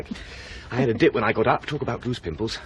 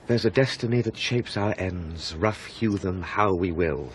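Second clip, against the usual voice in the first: reciting a line; 2 semitones lower, slower than usual. Acted. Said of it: "What's that line?".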